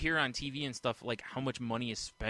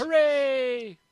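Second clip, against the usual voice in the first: loud, high cartoonish hooray; mock cheer; 10 dB louder than usual. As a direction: cheer wildly in a put-on high voice. Mock cheer at napalming joke.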